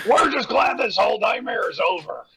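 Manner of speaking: line read through laughter; giggling through the line; laughing while reading. Acted. Voicing Kat in fanfic.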